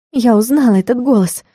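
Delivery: ordinary delivery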